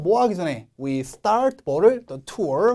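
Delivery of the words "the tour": "The tour" swept upward; rising intonation. Shown as a demonstration. Teacher showing phrase tune, rising on "tour". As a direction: let "tour" glide up. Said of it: "슉 올려주시고".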